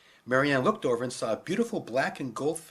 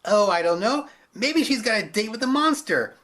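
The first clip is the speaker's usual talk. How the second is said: laughing mock; 8 semitones higher, 6 dB louder than usual. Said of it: "laughed another man".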